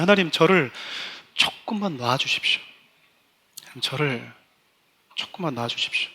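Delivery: tearful prayer. Retold or imitated. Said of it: "제가 하나님께 이렇게 기도했어요".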